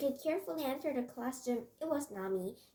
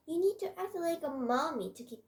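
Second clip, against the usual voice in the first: "mommy" leaned on with raised pitch; stress on "mommy"; 5 semitones higher than usual. A narrator's reading. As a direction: give the word "mommy" extra emphasis. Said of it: "I stressed the word mommy".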